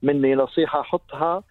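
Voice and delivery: slow, measured poem delivery; poem recitation. Acted.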